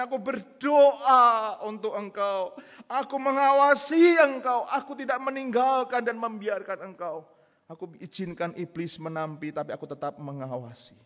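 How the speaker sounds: slow, loud, high solemn voice of God. Retold or imitated. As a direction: proclaim it as God reassuring his disciple. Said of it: "tapi dia mengatakan".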